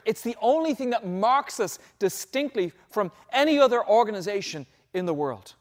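lightly acted, insistent preaching plea; Moses, emphatic plea. Moses arguing that God's presence sets them apart, emphatic.

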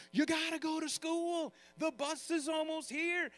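a hint of a parent rushing a kid to school; parent waking a kid. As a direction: parent barging into a kid's room, mild mock nagging. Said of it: "like a parent busting into your room".

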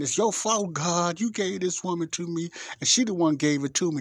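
Adam blaming God for the woman, high and loud; accusing Adam. Retold or imitated. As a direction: blame God and the woman in one breath. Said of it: "That's basically what Adam is saying".

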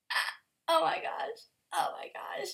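breathless whispered awe; hushed, amazed whisper; awed whisper. Real, not acted. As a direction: whisper it in wonder. Awed by fan art.

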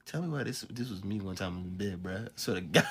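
ordinary delivery

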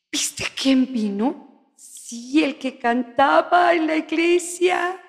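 soft, slow, secretive gossip voice; hushed church gossip. Acted. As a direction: lean in and spill the secret quietly. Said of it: "Ahí les va la mía".

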